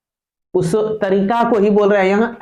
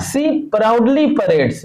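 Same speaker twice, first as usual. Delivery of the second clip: slow reading; 2 semitones higher, much slower than usual. Shown as a demonstration. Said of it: "reread slowly, laughing".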